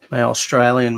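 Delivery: briefly attempted, badly faked Australian accent; half-hearted mock Australian accent; terrible Australian accent. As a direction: have a poor go at an Australian accent. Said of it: "was a terrible accent".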